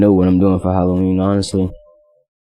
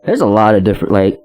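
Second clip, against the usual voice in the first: garbled country mumbler. Acted. Echoing the touchdown memory, garbled country mumbling.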